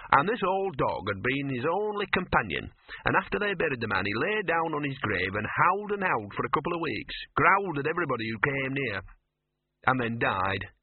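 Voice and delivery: lightly voiced streetwise mutt; storytelling dog. Dog telling Victor of his namesake, lightly voiced. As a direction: recount it as a scruffy old stray.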